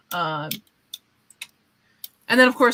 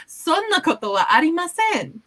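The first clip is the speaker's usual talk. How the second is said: polite modest denial; 8 semitones higher, 3 dB louder than usual. Shown as a demonstration. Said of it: "a very polite way to say it".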